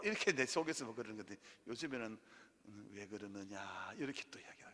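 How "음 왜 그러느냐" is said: slow, low, soft Jeolla-dialect God's voice; 느릿하고 낮은 전라도 사투리. Retold or imitated. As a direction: drawl it gently in Jeolla dialect, as God. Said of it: "전라도 말로".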